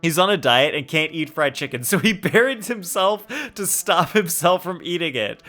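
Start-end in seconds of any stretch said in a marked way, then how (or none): 1.8-5.4 laughing through the words, higher; amused, laugh breaking into the line. Real, not acted. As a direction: crack up mid-sentence. Amused at character's self-burial.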